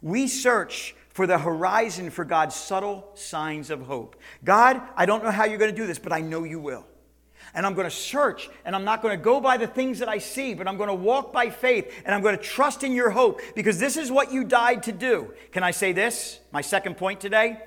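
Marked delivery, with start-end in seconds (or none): 4.4-15.3 rising, louder impassioned prayer; fervent prayer. Acted. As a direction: pray it out with growing fire. Preacher voicing prayer at full force.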